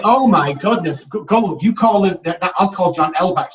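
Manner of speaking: acting out a sudden panic; retold alarm. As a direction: blurt it out, flustered and loud. Retold alarm at wrong John.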